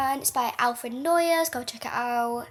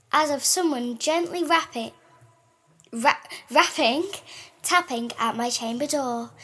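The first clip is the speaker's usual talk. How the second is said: measured, dramatic reading of a gothic poem; poem recital. Acted. Co-host reads The Raven aloud to listeners, dramatic recital. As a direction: read it like a ghost story by candlelight.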